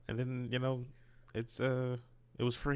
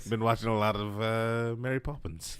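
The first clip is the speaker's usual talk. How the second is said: carrying on in a British accent; drifting British accent, half laughing. Real, not acted. Explaining Mary Poppins in a British accent. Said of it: "Somehow became a British accent".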